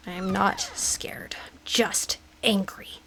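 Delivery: slow, tense whisper. Real, not acted. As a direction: whisper to talk yourself brave. Self-reassurance while scared.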